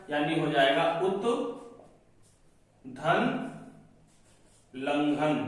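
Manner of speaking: उत धन लंघन said in separate chunks with pauses; split into parts. Shown as a demonstration. Teacher spelling out उत धन लंघन piece by piece. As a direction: break उल्लंघन into उत, धन, लंघन. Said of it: "क्या हो जाएगा".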